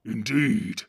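gruff orc chief giving orders; Ugluk the orc captain. Acted. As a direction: bark orders at the cowardly Northerners. Ugluk speaks.

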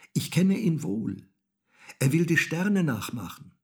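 put-on high, loud little boy's voice; knowing child. A narrator's reading. Häwelmann explains what the cat does, knowingly. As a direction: announce it with a child's certainty.

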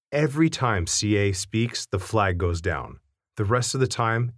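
usual speaking voice

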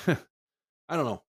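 exasperated laugh through the words; I don't know said with a tired laugh; laughing shrug. Real, not acted. Podcast host to fans, laughing it off in frustration. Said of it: "forgive me for being a little agitated".

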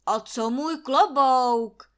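loud, slow, high shriek. A narrator's reading. Landlord shrieking about his hat, loud and slow. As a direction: scream out for the lost hat. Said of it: "vříská Trautenberg".

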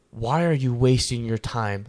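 slow, measured mock reproach; mildly scolding. Online inspirational speakers scolding viewers, imitated mild reproach. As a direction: imitate a speaker taking you to task, slowly. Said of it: "like they're scolding you and mad at you".

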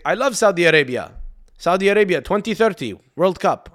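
playful mock Arab accent. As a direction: Ronaldo parroting the line in a put-on Arab accent. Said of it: "saying it with an Arab accent".

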